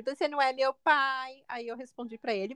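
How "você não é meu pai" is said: put-on slow, drawn-out cheeky child's retort; mocking. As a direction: imitate a boy's mild mockery, stretching the words. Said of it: "todo debochado, e responde". (imitando menino debochado, arrastado)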